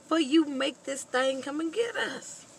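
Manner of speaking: put-on high, loud, panicked boy pleading; scared son. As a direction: hush Daddy in fright. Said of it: "the son is like".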